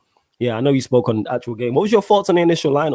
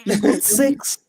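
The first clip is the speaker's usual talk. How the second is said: high mock Scouse bragging about trophies; mock Scouser; 9 semitones higher than usual. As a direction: Liverpool fan accent, pitched up. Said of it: "I can't even do that accent".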